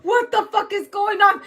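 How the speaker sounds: high, panicked exasperation; hammed-up freak-out; mock meltdown. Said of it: "Someone's having a meltdown".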